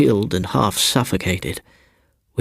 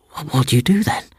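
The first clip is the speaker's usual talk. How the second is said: put-on higher, stammering boy; nervous stammer; 7 semitones higher, faster than usual. A narrator's reading. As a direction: stumble over the start, uneasy. Startled narrator as boy.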